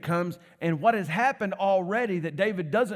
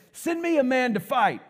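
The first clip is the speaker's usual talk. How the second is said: a hint of a booming giant calling out; lightly booming giant challenge; 7 semitones higher, 4 dB louder than usual. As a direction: call across the valley like a mock giant. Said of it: "he had to have that booming voice".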